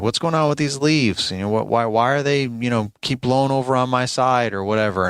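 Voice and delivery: mildly accusing, imitating a complaint; confrontational.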